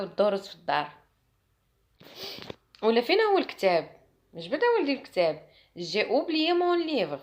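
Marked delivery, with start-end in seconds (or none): 5.8-7.2 slow, sure classroom French; slow confident French. Shown as a demonstration. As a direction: say it slowly with confidence. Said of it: "نقولها بثقة في النفس". (بثقة في النفس، ببطء)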